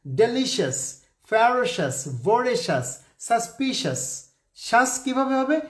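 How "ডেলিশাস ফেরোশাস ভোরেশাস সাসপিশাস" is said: ডেলিশাস, ফেরোশাস with a short shas ending; correct pronunciation. Shown as a demonstration. Teacher reads the correct forms to students. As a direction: say ডেলিশাস cleanly, no si-as. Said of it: "এবার আমি শুদ্ধ উচ্চারণ".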